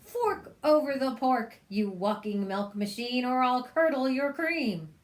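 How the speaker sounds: loud, threatening witch; angry witch. Acted. Witch threatening the cow, loud. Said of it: "screamed Gritch".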